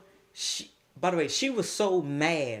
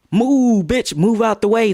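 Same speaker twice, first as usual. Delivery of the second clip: imitated rough shove; 6 semitones higher, 13 dB louder than usual. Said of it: "was it more so like a".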